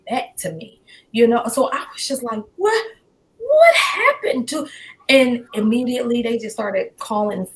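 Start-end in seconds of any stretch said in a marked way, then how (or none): 2.6-4.7 high, stretched-out questioning, retold; stunned disbelief. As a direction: relive stunned disbelief, pitched way up. Recalls her stunned reaction.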